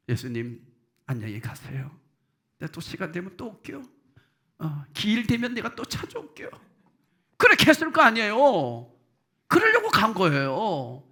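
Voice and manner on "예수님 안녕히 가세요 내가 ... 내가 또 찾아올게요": quiet farewell. Pretend. Imagined farewell at Jesus' grave.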